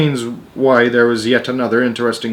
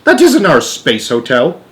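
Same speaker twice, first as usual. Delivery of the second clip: yelling; 4 semitones higher, 5 dB louder than usual. Acted. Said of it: "yelled Showler".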